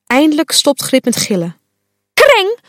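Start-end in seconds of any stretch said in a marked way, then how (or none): 2.1-2.6 high, loud furious yell; shrieking at Fuchsia, high and loud; angry shout. Acted. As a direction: scream the insult at her. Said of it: "roept ze tegen Fuchsia".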